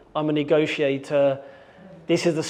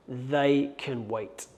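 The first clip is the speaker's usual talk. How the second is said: slow self-talk; 3 semitones lower, 6 dB quieter, much slower than usual. Retold or imitated. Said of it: "I'm thinking".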